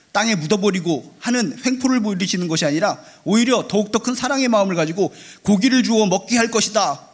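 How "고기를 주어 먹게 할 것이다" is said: raised, higher voice for a retold decree; God's promise declared by a preacher; proclamation. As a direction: proclaim it firmly from the pulpit. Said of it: "라고 선포하셨다는 것입니다".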